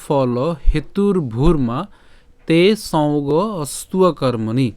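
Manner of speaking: slow, measured shloka recitation with drawn-out long vowels; Sanskrit verse recitation. Shown as a demonstration. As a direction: recite it slowly in careful Sanskrit. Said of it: "শুদ্ধ সংস্কৃত উচ্চারণ নিয়ে আলোচনা করব". (ধীরে শুদ্ধ সংস্কৃত উচ্চারণে শ্লোক পাঠ)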